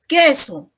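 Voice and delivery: "Queso" said KE-so, no u sound; silent U. Shown as a demonstration. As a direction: model "Queso" with a plain k before the e. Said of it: "Tampoco pronuncio la U". ("Queso" sin pronunciar la u)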